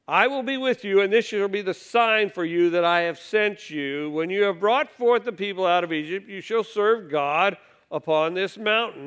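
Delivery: measured, solemn Bible reading from the pulpit; scripture reading. Acted. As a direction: read each line out like holy writ. Rereads God's answer.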